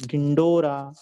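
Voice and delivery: ढिंडोरा loud, with a clear n before ड; n sound sounded. Shown as a demonstration. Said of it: "यहाँ भी न का उच्चारण है". (न पर ज़ोर देकर ढिंडोरा)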